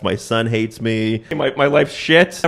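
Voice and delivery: slow mock wail, building; imitated crying. Lawyer breaking down to her client, imitated crying. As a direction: draw it out like a tearful confession. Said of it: "she starts crying".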